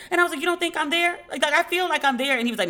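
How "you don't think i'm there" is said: high, offended question; a little wounded, asking her dad; hurt disbelief. Retold or imitated. She asks her dad in hurt disbelief, pitched high.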